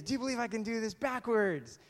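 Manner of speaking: high showman's challenge; calling to a crowd. Acted. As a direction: dare the audience to believe. Daredevil calls to the crowd.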